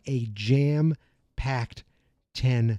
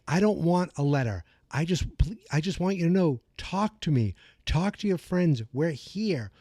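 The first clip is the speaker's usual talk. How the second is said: earnest pleading; 3 semitones higher than usual. Retold or imitated. Acted plea of Lucas to Max.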